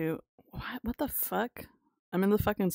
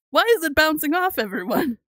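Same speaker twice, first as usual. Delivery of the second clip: louder, higher complaint; exasperated; 6 semitones higher, 6 dB louder than usual. Real, not acted. Streamer complains loudly the shots bounce off. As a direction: vent at the game. Frustrated at game.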